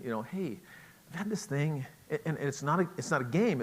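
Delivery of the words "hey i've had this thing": soft startup. Shown as a demonstration. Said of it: "Instead of saying".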